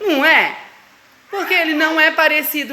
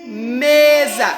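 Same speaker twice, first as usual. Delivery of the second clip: 1 sounding out again; 3 semitones lower, 3 dB louder than usual. Shown as a demonstration. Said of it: "De novo, Valentina".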